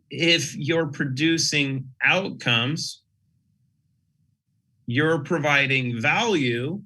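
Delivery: flat, even, mechanical robot voice. Real, not acted. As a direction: drone it out like a robot. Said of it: "I sound like a robot because I'm talking that way".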